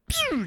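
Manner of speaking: quick whooshing 'pew' sound; zippy mouth-made whoosh; imitated car zoom. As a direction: make the noise of a car zipping past. Imitates the cop car zooming up.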